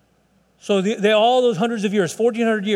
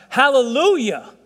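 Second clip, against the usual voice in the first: loud, higher, drawn-out acclamation; crying out; 5 semitones higher, 5 dB louder, slower than usual. Acted. Preacher voicing the multitude in Revelation, crying out loudly. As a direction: cry it out slowly like a great multitude. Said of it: "crying out".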